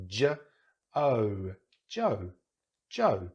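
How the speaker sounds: "J", then "O", then blended into "Joe"; sounded-out name. Shown as a demonstration. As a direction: break Joe into its sounds, then join them. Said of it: "Or even in my name".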